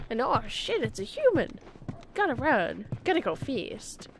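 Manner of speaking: startled critter voice; suddenly spotting a human; mock startled. Voicing startled animals.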